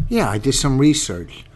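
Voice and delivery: "Yeah, I did some research" said around a sip of water; water held in mouth. Real, not acted. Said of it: "I got a little water in my mouth".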